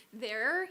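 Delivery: THERE with a drawn-out, emphatic "er"; exaggerated R. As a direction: lean hard on the "er" ending of THERE. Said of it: "I'm saying my ers a lot".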